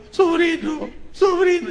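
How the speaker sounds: lightly high, sing-song calling uncle; voz del tío Pancho. Retold or imitated. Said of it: "como el tío Pancho". (voz aguda del tío llamando al sobrino)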